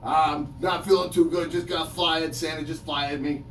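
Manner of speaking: a hint of a glum, grumpy elf; mopey elf just fired by Santa; lightly voiced Cranky the Christmas Elf. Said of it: "a character called Cranky the Christmas Elf".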